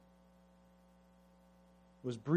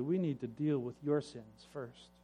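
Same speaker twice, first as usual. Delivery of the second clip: softly; 3 semitones lower, 7 dB quieter than usual. Acted. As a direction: calmly turn it back on him. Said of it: "Firstborn spoke softly".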